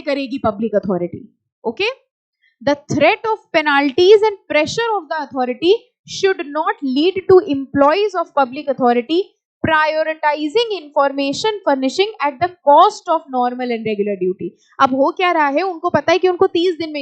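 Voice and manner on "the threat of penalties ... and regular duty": slow, deliberate read of the text; slow reading aloud. Shown as a demonstration. Teacher reading the clause slowly to students. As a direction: spell the clause out word by word. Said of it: "reading the text aloud".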